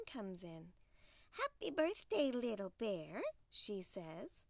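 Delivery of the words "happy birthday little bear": cheery Hen. Acted. Hen greets Little Bear on his birthday, cheery hen voice. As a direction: greet in a lightly put-on hen voice.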